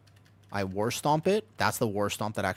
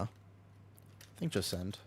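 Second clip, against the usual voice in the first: whispering; 2 semitones lower, 13 dB quieter, much slower than usual. Real, not acted. Muttered aside.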